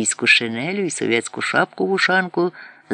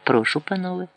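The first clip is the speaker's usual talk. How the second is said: different tone; 6 semitones higher than usual. A narrator's reading. Man turns to the officers in a sugary tone. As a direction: switch to a sweet host's tone. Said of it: "і вже іншим тоном".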